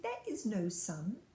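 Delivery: grave, measured pronouncement; slow and grave. Acted. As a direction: lay it down slowly like a verdict. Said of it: "Slowly and gravely the witch repeated".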